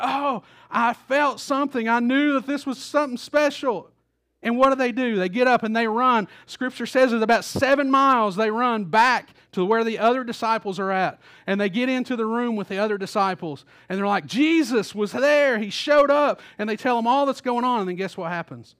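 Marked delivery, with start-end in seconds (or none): 0.0-3.9 excited realization. Retold or imitated. Disciples realize who it was. 14.2-16.4 excited news. Retold or imitated. Disciples burst in with news.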